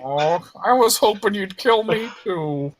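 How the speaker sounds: a hint of a let-down creature; disappointed skeleton. Skeleton whines at player.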